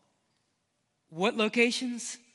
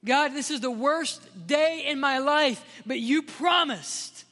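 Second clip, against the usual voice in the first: Jesus on the cross; 3 semitones higher than usual. Retold or imitated. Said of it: "Jesus was hearing these words".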